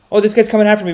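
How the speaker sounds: mock panic. Speaker mocking the politician owl's panic, hammed-up alarm. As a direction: squeal it like a spooked politician. Third repeat, voiced louder.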